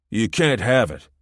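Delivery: sulky, whiny protest; petulant. A narrator's reading. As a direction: pout like a spoiled kid. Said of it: "Mitchell said petulantly".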